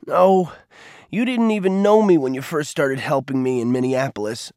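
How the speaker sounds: put-on a frustrated boy's outburst. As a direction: snap back, hurt and annoyed. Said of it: "let his frustration show".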